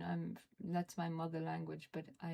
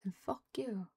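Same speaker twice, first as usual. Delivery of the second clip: whispered curse; 3 dB louder than usual. Real, not acted.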